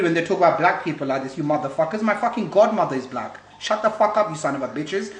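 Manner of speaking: real, moderately heated rant; irritated telling-off; angry cursing. Real, not acted. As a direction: curse them out in anger. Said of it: "it makes me angry".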